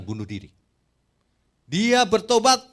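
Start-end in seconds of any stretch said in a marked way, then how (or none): 1.6-2.6 loud, high declaration of repentance; a sudden loud, high preacher's cry; emphatic proclamation. Real, not acted. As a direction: proclaim it to the whole church.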